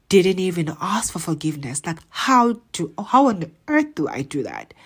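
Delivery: a touch of rage as you question God; worked-up but controlled frustration; angry retelling. Retold or imitated. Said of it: "I'm so angry".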